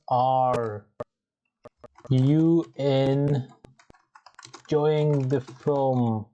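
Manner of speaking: slow, each word separate; slow teacher model. Shown as a demonstration. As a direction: model the question slowly for the class.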